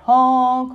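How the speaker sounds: long, loud truck honk; scared honk. A narrator's reading. Stuck dump truck calls for help, scared honk. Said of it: "he sounded scared".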